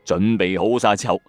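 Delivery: ordinary delivery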